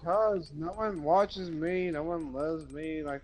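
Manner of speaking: mock woe-is-me; self-pitying complaint. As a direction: draw it out like a playful sulk. Self-pitying answer to "Why?.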